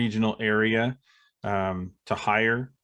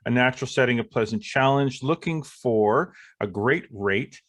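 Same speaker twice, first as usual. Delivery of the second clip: sponsor read. Acted.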